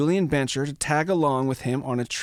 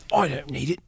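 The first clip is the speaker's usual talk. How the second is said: put-on terrible German accent. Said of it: "It's my terrible German accent".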